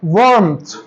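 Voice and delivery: वार्मथ with only a faint r, waarmth; barely touch the r in वार्मथ; light r sound. Shown as a demonstration. Teacher models warmth for students, faint r. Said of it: "आर का sound आया पर कम आया".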